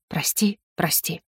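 fading soft whisper through tears; whispered sorry. Acted. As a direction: whisper it, dying away. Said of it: "могла шептать только".

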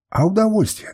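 high, pressing question; insistent probing. A narrator's reading. Master demands an answer from the woman, insistent. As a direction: press for an answer, pitch lifted. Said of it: "допытывался я".

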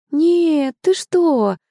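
bursting out, shocked at the idea; mother surprised her daughter thinks that; surprised denial. Acted. Mother denying father's anger.

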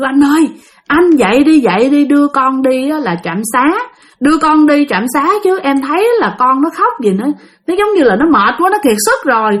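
retold urgent call to wake a husband; alarmed plea. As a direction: plead urgently, as if rousing someone for help. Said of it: "chị mới hoảng hồn, chị mới kêu chồng chị dậy".

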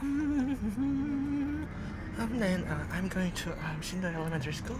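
put-on Korean American accent. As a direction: play a gyopo fumbling for Korean words. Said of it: "한번 따라해주실 수 있으세요?".

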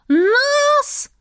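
high, outraged yelp; indignant wail. Acted. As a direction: wail in protest. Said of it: "возопил сапфировый принц".

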